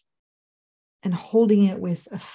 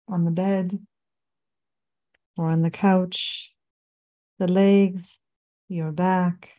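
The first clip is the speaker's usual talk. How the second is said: unhurried meditation guide, long pauses between phrases; measured body-scan guidance with room to breathe; guided meditation. Acted. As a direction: lead them gently through a body scan, phrase by phrase.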